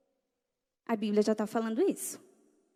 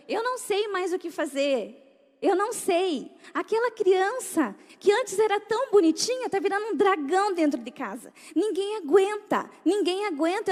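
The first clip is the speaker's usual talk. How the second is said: higher, mildly tearful desperate plea; crying mother; 6 semitones higher than usual. Retold or imitated. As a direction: imitate a mother close to tears. (mãe quase chorando, voz mais aguda)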